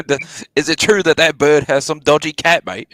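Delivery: mock British slang voice; playful put-on British; British accent. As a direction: ask like a British lad, put on. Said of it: "have a conversation in British accent".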